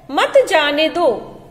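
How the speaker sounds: slow, separate "मत जाने दो", falling at the end; pause before मत. Shown as a demonstration. Teacher reading what follows the comma, setting "मत" apart. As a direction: begin afresh on "मत" and let "दो" fall. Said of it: "उसके बाद यहाँ पर चिन्ह लगा है".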